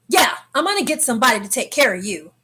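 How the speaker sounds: quick, slightly firmer imitation of the man. Man on the stairs repeats himself, quick and a little forceful. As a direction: put a little force behind the threat. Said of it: "with a little more force".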